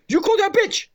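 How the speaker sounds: put-on high Asian-accented accusation; Asian man's accent. Garage owner confronting rude customer, high imitated Asian accent. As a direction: mimic the little Asian owner confronting someone. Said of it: "this is exactly how this man spoke".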